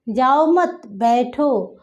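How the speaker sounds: जाओ मत run together, separate बैठो; group जाओ with मत, then break before बैठो; जाओ मत, a clear pause, बैठो; pause after मत. Shown as a demonstration. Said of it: "श्रोता को समझ में आ रहा है".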